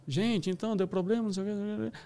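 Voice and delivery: softly mumbled mock announcement, trailing away; hesitant announcer. Cinema employee explains a problem to the audience, soft and hesitant. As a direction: imitate a timid employee addressing a crowd, soft.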